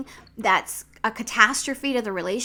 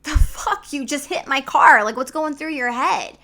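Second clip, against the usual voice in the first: loud, higher, exasperated yelling; angry husband; 4 semitones higher, 7 dB louder than usual. Retold or imitated. Husband yelling at wife over dented truck, angry. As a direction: blow up at her for denting the truck. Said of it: "my husband was pissed".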